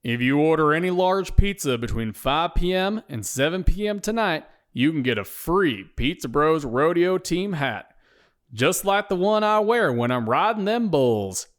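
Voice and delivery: smiling rodeo spokesman. Acted. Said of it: "says Blake with a smile".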